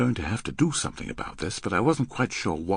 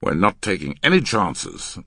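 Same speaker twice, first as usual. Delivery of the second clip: firm, louder refusal; grim; 5 dB louder than usual. Acted. Man refusing his partner's pleas, grim. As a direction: answer with grim firmness. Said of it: "the man answered grimly".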